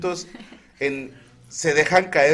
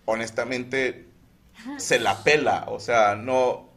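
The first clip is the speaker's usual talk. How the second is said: trying not to laugh; 4 semitones lower than usual. Retold or imitated. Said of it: "pues estoy intentando no reírme".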